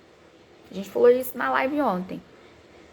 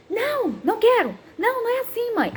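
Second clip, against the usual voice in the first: put-on high, whiny childish refusal; defiant toddler; 11 semitones higher than usual. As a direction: imitate a toddler saying no to mum. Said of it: "Sabe aquela fase do não?".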